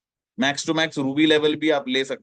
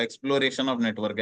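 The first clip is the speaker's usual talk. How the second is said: slow key term; much slower than usual. Shown as a demonstration. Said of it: "names the third phase".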